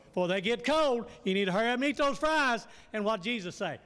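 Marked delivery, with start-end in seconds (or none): 0.1-2.7 pushy disciples. Acted. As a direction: rush him to eat before the fries get cold. Disciples voiced urging Jesus to eat.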